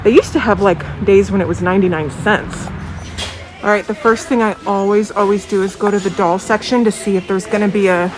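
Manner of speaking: talking through a face mask; muffled by mask. Real, not acted. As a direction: speak muffled behind a mask. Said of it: "I have my mask on if I sound a little muffled".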